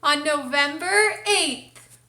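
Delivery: announcing big news. Acted. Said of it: "We have an announcement to make".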